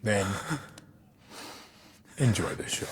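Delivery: hushed and cold; cold whisper. Acted. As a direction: whisper it with contempt.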